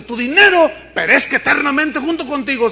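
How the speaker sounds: firm preacher rebuke; stern rebuke. Acted. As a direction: proclaim it like a verdict. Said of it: "Cuando le dice".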